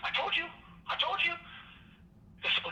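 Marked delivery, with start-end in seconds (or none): 0.1-1.3 much higher, sing-song gloat; mock gloating, pitched high; gloating I-told-you. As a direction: rub it in. Turtle gloating.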